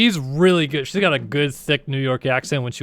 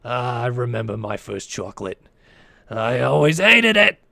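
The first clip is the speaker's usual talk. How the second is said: reminiscing like a dying granny, half-hearted; SpongeBob old lady; 3 semitones lower than usual. Retold or imitated. Streamer imitating the cartoon old lady's line, lightly voiced. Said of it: "and then she goes".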